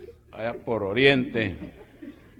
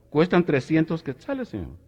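put-on high shop girl voice; 5 semitones higher than usual.

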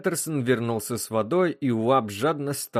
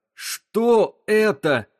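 much higher, very slow disbelieving question; stunned repeat; 10 semitones higher, 5 dB louder, much slower than usual. Acted. The captain repeats his question, stunned and disbelieving. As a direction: stretch "Что это?" out in disbelief.

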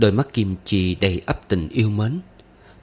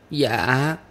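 put-on sweet child's reply, pitched up; sweet little yes; 5 semitones higher than usual. A narrator's reading. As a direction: answer sweetly as an obedient Southern girl. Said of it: "Tiếng dạ của con bé Nam Kỳ ngọt như nước dừa".

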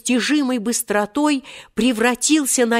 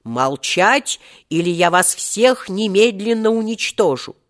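ordinary delivery, nothing marked

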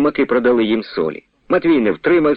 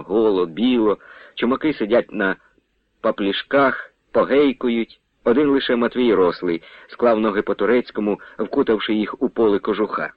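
usual speaking voice

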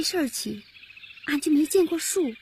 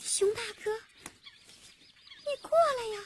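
soft, high pleading; small, high, imploring voice; pleading coax; 9 semitones higher, 9 dB quieter than usual. Acted. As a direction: beg gently, coaxing it closer. Pleading with the bear to come.

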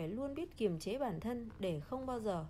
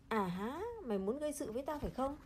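put-on drunk man roaring; 3 semitones higher than usual. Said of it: "Hắn gầm lên".

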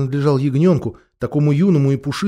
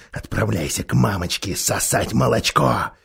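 mocking ape; 4 dB louder than usual. The ape mocks the lamb.

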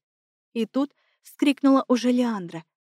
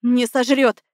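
defiant outburst; 5 dB louder, slower than usual. A narrator's reading. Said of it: "набрала в грудь воздуха и выдала".

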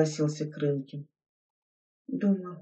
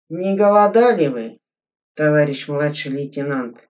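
prickly question; 5 dB louder than usual. Acted. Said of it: "колюче глядя на Игоря".

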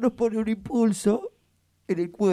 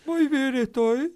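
disguised deep voice; 2 semitones higher than usual. Real, not acted. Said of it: "se escucha raro mi voz".

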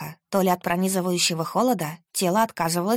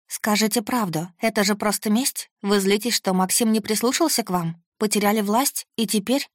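higher, urgent, pressing questions; pleading accusation; 3 semitones higher than usual. Acted. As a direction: push him with anxious questions. Heroine confronts her captor.

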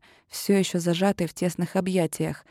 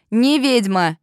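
loud outcry; 3 semitones higher, 5 dB louder, slower than usual. A narrator's reading. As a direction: yell НЕ ведьма in denial. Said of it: "выкрикнула я громко". (громкий выкрик)

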